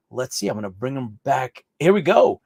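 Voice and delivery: normal talking voice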